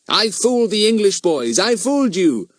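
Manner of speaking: high, teasing singsong; gloating schoolboy. A narrator's reading. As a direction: crow that you fooled them. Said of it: "he kept saying".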